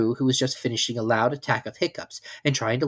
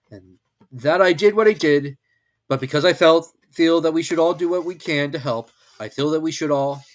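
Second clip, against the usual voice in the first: pompous donkey speech; 5 semitones higher, 8 dB louder than usual. Acted. Eeyore continues speech.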